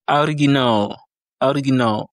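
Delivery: original in Russian, first O read as A; Russian pronunciation. Shown as a demonstration. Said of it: "le O se lit A".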